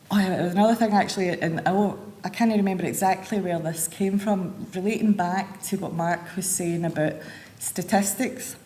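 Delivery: talking while chewing gum. Real, not acted. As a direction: say it with gum in your mouth. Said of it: "Oh, chewing gum in".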